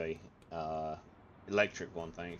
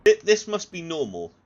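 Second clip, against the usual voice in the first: high, loud mock reassurance to himself; mock calm, loud; 10 semitones higher, 14 dB louder than usual. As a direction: loudly pretend it's normal. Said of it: "I was like".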